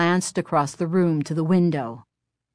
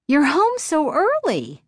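pleased surprise; 10 semitones higher than usual. A narrator's reading. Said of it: "Chris exclaimed".

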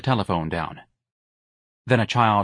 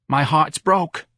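quiet grief; 7 semitones higher, 3 dB louder, much slower than usual. A narrator's reading. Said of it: "her voice heavy with grief".

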